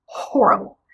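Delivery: hushed, voiceless verdict; whispered emphasis. Real, not acted. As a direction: drop into a whisper for the damning word.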